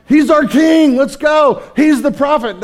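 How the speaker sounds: high, loud rallying shout; excited crowd cheer. Retold or imitated. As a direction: cheer like a crowd hailing its hero.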